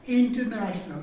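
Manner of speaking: इंटरनेशनल with the नेश syllable drawn up and out; stress on नेशनल. Shown as a demonstration. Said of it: "इसको हम बढ़ाते हैं आवाज को".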